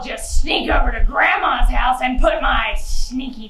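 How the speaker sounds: sly villain muttering his plan; lightly voiced sneaky wolf; scheming wolf. Wolf plotting aloud.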